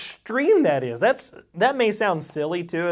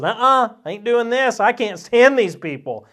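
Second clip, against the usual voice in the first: a little higher and louder, balking like a stubborn prophet; defiant Jonah; 5 semitones higher, 4 dB louder than usual. Retold or imitated. Jonah refusing God's command, mildly voiced defiance. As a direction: toss off a refusal like a sulky prophet.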